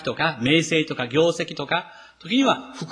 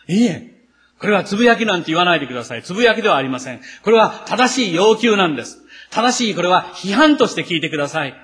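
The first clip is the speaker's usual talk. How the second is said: louder, insistent objection in the grumblers' voice; defensive protest; 3 semitones higher, 5 dB louder than usual. Pretend. Grumbler insisting to the preacher it is fair criticism. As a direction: push back as if wrongly accused.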